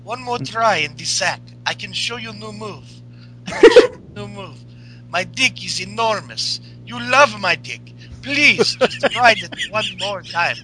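put-on lightly Russian-accented pleading; mock-begging in a light Russian accent; Rusev pleading. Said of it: "he's like".

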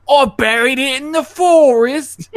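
high, loud simpleton; proud, dim village fool. Retold or imitated. Simpleton admits burying the gold, high and loud. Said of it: "talk to the simpleton again".

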